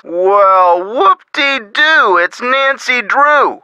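drawn-out mock delight; slow, sarcastic whoop-de-doo. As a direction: make a slow show of being unimpressed. Sarcastic reaction to the caller.

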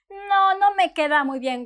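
mildly disappointed, drooping. Shown as a demonstration. Customer after a bad fit, mildly disappointed. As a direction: let the letdown show a little. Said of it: "with your disappointment face".

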